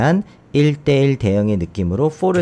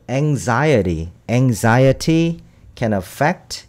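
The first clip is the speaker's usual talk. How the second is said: slow reading; much slower than usual. Shown as a demonstration. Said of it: "reading the example sentence slowly".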